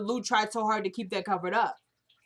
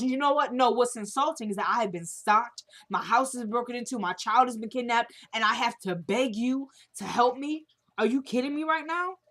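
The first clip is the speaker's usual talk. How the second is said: furious rant; 3 semitones higher than usual. Retold or imitated. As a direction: build outrage at the cop's insult. Kelly's angry speech to cop.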